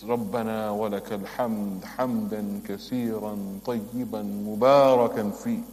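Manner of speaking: devout recitation, speeding at the end; full dua recited. Shown as a demonstration. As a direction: recite the whole prayer with care. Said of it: "This is the du'a".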